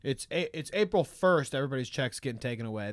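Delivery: mock Elon. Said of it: "in his dumb Elon way".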